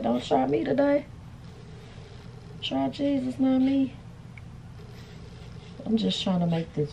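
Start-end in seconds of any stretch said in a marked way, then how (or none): 0.0-3.9 higher, sassy flat iron talking back; voicing the flat iron. The blinking flat iron refusing to work, sassy voice. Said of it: "It said".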